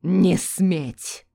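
loud, commanding cry; fierce narrated shout; terrible shout. A narrator's reading. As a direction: forbid it with full authority. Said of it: "закричал доктор страшным голосом".

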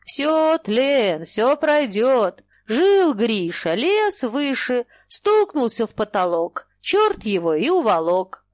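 a holy fool droning slow and loud over the room; booming holy fool. Acted. Holy fool booms his warning at the merchant's household, slow and loud. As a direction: boom it out like a prophecy, dragging the words. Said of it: "Гудит".

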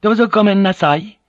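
high, bright-voiced polite wife; polite Japanese wife. A narrator's reading. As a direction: correct him sweetly and humbly. Fujiko asking.

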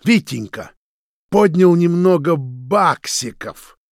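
loud, high furious mocking yell, slow at the end; enraged accusation. A narrator's reading. Roman accusing Vitya of taking money, enraged sneer. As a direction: sneer it in rage. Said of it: "от бешенства дёргалась щека".

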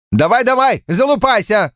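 high, scornful taunting snort. A narrator's reading. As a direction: sneer it out. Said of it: "фыркнул Полвард".

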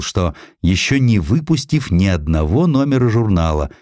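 ordinary delivery, nothing marked

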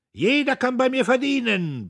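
loud, high bellow. A narrator's reading. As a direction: hammer the offer into the hall. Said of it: "brüllte Diederich mit unverminderter Gewalt".

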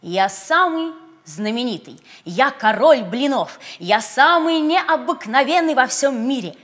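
loud proud bragging; boastful. Acted. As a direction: puff up and brag. Pancake boasting.

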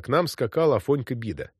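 usual speaking voice

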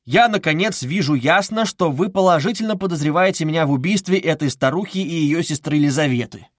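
mild restrained anger; indignant accusation. Acted. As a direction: confront the investigator, voice rising. Raskolnikov confronting Porfiry.

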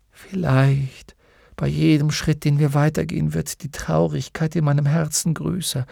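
sinking into grief, word by word; heavy-hearted horse. Acted. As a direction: Artax confessing his heavy heart, fading. Artax weighed by sadness.

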